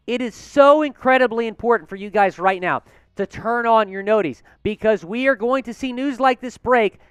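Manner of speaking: breathless, rushing through; out of breath from excitement. Real, not acted. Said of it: "I'm out of breath".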